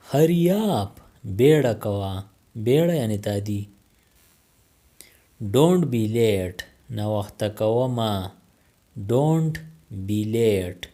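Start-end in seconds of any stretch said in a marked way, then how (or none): 5.6-6.6 slowed-down classroom model; slow, careful. Shown as a demonstration. Teacher modelling the phrase for learners, slow. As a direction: say it slowly for learners. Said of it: "teacher repeats the phrase twice".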